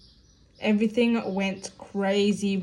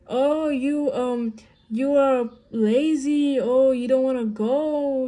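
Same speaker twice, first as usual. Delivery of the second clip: higher, slow nagging mimicry; mocking family; 4 semitones higher, 3 dB louder, slower than usual. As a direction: imitate the family scolding her as lazy. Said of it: "they all start saying".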